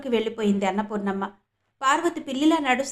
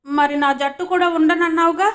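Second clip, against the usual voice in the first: put-on high, loud childish pout with a little laugh; sulky little boy; 5 semitones higher, 7 dB louder than usual. Raghubabu accuses Parvati, pouting like a child with a laugh.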